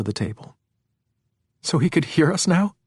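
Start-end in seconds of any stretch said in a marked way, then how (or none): 1.6-2.7 high, alarmed question; crying out. A narrator's reading. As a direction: cry out in alarm. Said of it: "Ginny cried".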